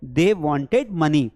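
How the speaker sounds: he wants money said very slowly, word by word; slow dictation. Shown as a demonstration. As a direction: spell it out slowly for the class. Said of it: "क्या बोलेंगे?". (धीरे-धीरे बोलकर सिखाना)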